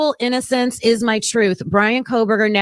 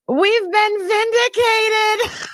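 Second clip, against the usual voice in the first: higher and slow, savoring each word; overjoyed cry of vindication; thrilled; 9 semitones higher, slower than usual. Real, not acted. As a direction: let the triumph ring out. Reacting to breaking news.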